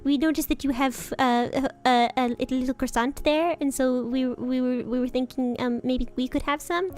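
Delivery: hesitant, courteous bird asking a favour; polite ambassador sparrow. Retold or imitated. Ambassador sparrow asks for croissant.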